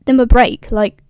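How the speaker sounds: loud, exasperated tirade; pissed-off rant. Retold or imitated. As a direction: rant like a furious goddess. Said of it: "super pissed".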